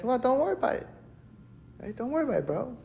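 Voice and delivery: a hint of a calm prophet saying "bro"; calm reassurance. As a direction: soothe the panicked man like a laid-back friend. Elisha calming the worried man.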